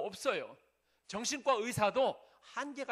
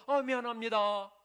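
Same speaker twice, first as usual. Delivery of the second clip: louder, held-out apologetic call; acted polite apology; 2 semitones higher, 6 dB louder than usual. Preacher playing an old-time passerby who bumped someone, loudly apologetic. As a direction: call out a courteous sorry, acted. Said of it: "옛날에는 길 가다가 부딪혔어도".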